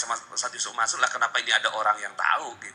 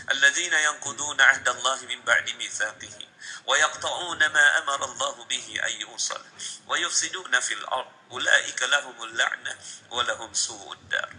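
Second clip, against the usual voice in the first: Arabic Quran recitation; lantunan ayat Quran. Real, not acted. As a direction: recite the verse in measured, sustained Arabic. (melantunkan ayat Al-Quran)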